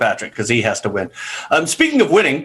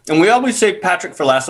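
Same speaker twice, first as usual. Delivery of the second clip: chewing while talking; 3 semitones higher than usual. Real, not acted. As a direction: mouth full of cookie. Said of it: "I'm chewing on a".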